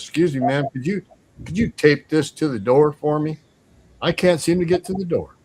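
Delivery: lightly acted courteous plea; polite request. Officer politely asks lady for help.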